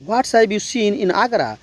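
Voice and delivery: very slow, every word spaced out; slow classroom demo; slow model sentence. Shown as a demonstration. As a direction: spell it out slowly like a teacher. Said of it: "हर sentence का बीस बार बोलना है".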